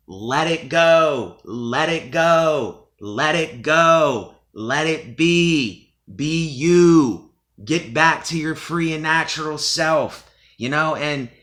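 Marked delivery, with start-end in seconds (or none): 0.1-10.3 slow, drawn-out inspirational coaching; motivational speaker. Real, not acted. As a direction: coach them to let go, slowly. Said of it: "I sound like I'm a motivational speaker here".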